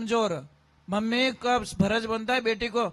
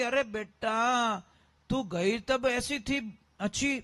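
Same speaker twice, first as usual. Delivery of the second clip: slow, lamenting mother, lightly voiced; a touch of a mother's wail, drawn out; mock crying mother; slower than usual. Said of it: "उसकी मां रोने लगी".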